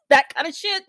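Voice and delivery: high laugh spilling into words. Real, not acted. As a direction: laugh through the words, brushing it aside. Laughs about rape and homelessness.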